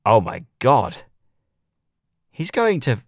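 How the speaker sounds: slow, stunned; dawning horror; stunned realisation. A narrator's reading. Sudden realisation.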